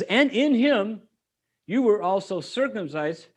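reading the verse aloud with weight; measured Bible reading; scripture reading. Acted. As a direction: read it like Scripture from the pulpit.

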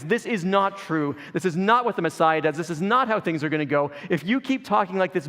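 forceful rebuke. Acted. Peter takes Jesus aside to correct him, forceful rebuke. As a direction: correct him firmly, hammering each objection with moderate force. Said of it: "this intense and harsh conversation".

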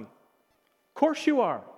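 slow, emphatic reassurance; encouraging. Retold or imitated. Friend affirming a discouraged man's first good trait, encouraging.

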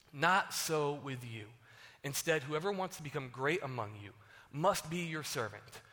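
measured Bible reading to the congregation; calm scripture read-through. Acted. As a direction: read the passage steadily, like from the pulpit. Pastor reads Mark aloud.

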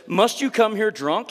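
mock-scold her like a stern priest; demanding. Priest Eli scolding Hannah at the temple, hammed-up demanding. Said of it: "he demanded".

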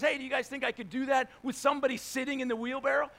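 mild mock call to the crowd; tightrope walker calling out. Tightrope walker asks the crowd to ride along, calling out. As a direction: call it out across the falls. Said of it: "he says".

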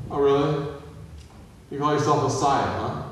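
mildly sarcastic mock challenge. Criminal taunting Jesus on the cross, mildly sarcastic. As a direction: put on a touch of scornful disbelief. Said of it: "That sarcastic, like".

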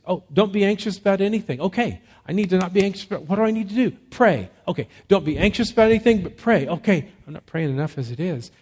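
hurried, fretful self-talk; accent on us. Shown as a demonstration. Preacher mimics anxious believer reading the verse as duty, hurried and fretting. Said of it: "leaves the accent on us".

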